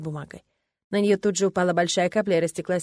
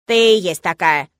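slow, louder sneering cat voice; snide cat; 9 dB louder, slower than usual. A narrator's reading. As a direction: drawl the insult lazily. Cat's snide jab. (ехидный кот, медленно)

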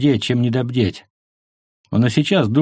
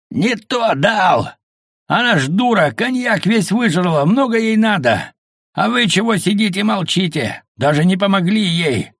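much higher, hammered shout; shouting over machinery; 9 semitones higher than usual. A narrator's reading. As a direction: yell over a roaring engine. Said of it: "Перекрикивая рёв мотора, Мося заорал". (крик сквозь рёв мотора)

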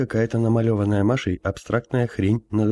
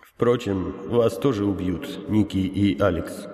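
sad; slower than usual. Acted. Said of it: "грустно добавил старец".

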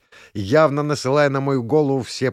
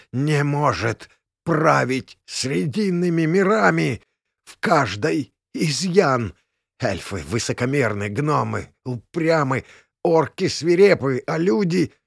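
hoarse; 3 semitones higher than usual. Acted. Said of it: "прохрипел я".

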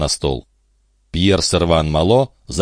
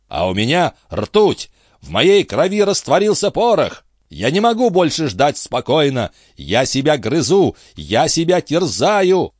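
higher, eager quizzing captain voice; a high-voiced captain grilling his friend; excitable old sea captain; 8 semitones higher than usual. A narrator's reading. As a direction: press him like a fussy old skipper. Antifer rants impatiently.

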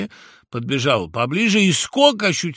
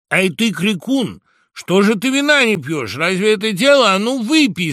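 high, loud crowd shout; birds shouting; 10 semitones higher, 9 dB louder than usual. Acted. All the birds shout at the woodpecker to drink. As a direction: shout him down all together. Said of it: "закричали в один голос все птицы".

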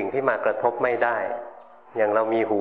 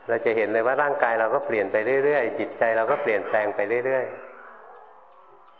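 slow, even monotone drone; slower than usual. Shown as a demonstration. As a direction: drone it flat and slow on purpose. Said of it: "หลวงพ่อแกล้งพูดโมโนโทน พูดเสียงเรียบๆ".

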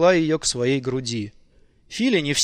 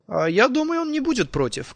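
high, airy woman's voice; coaxing woman; 9 semitones higher than usual. A narrator's reading. Nicole in the bath reassuring Fili, high-voiced. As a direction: answer lightly, pitched up high.

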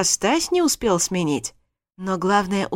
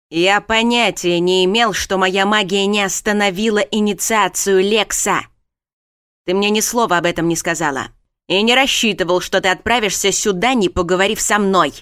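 stern lord; 5 dB louder than usual. Acted. Darren defends himself.

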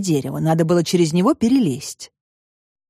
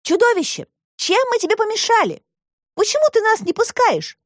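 put-on high girl's voice, calling out; Alisa calling out. A narrator's reading. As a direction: call to the monster as a young girl, much higher. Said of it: "закричала". (высокий девичий окрик)

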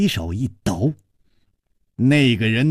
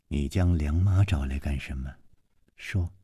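loud demand; 10 semitones lower, 8 dB quieter than usual. A narrator's reading. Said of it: "她大声地说".

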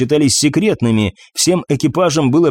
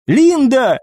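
alarmed cry; 11 semitones higher than usual. A narrator's reading. Eva calls the unconscious healer, alarmed. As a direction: cry out the name, pitch held high then falling.

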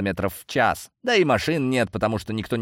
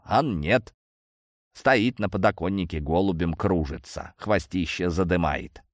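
put-on apologetic old man; 2 semitones lower than usual. Old man explains his grudge against the cat, mildly apologetic. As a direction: grumble an apology, dropping in pitch.

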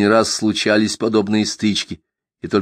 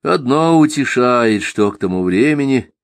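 sighing reply. Acted. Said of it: "со вздохом ответил Аввакум".

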